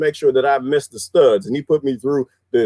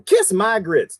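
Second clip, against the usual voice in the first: Aunt Esther; 5 semitones higher, slower than usual. Retold or imitated. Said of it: "that was Aunt Esther".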